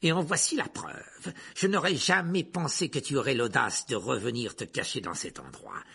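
lightly voiced triumphant villain, starting high and loud; gloating accuser. Teacher catches his enemy hiding, gloating.

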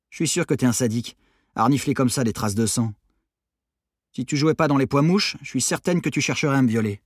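lightly voiced accusing teen; scornful teenage Maddy. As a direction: needle him with mild disgust. Maddy needles Armand. (adolescente méprisante, ton légèrement accusateur)

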